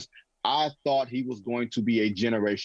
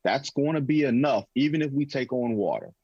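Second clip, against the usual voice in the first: much lower, smug confident musing; imitating Pelinka; 5 semitones lower than usual. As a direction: think aloud low and self-assured. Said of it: "He was thinking".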